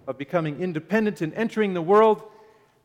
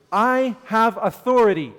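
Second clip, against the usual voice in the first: louder, higher, proclaiming authority; emphatic declaration; 6 semitones higher, 8 dB louder than usual. Acted. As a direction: announce it with full conviction. Preacher voicing Jesus' claim.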